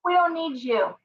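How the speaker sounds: high, gloating mock retort; gleeful defiance. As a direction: crow it like you just won. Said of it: "No, no, no".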